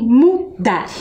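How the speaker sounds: "mudar" split slowly into mu and dar; slow, segmented "mudar"; syllable by syllable. Shown as a demonstration. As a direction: pause between the syllables of "mudar". Teacher splits word into syllables.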